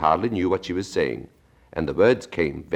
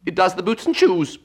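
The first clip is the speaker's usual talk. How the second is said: solemn; 5 dB louder than usual. Acted. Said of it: "very solemnly".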